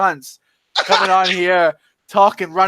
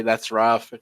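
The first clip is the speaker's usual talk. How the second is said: imitating Brett's catchphrase; 8 semitones lower, 3 dB quieter than usual. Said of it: "a lingo together".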